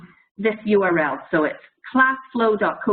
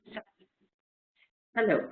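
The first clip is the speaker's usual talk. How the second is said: broken-up audio with dropouts; audio cutting out; 4 dB quieter than usual. Real, not acted. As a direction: voice drops in and out. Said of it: "My audio keeps cutting out".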